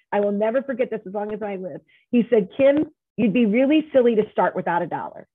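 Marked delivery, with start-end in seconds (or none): 2.6-5.3 lightly imitated Southern accent, a bit louder. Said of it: "And in his Southern accent".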